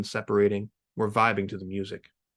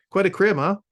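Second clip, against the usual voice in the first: impressed bro; 9 semitones higher, 6 dB louder than usual. Acted. Reluctant admires house.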